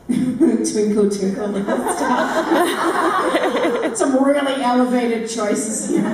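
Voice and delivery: giggling through the words; laughing. Real, not acted. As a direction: laugh while you talk. Laughing at own song choice.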